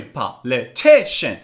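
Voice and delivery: "Politician" slowly split, TI stressed; low, slow "Politician" with pauses, TI strongest; slow, syllable by syllable. Shown as a demonstration. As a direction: model "Politician" in four separate beats for repeating.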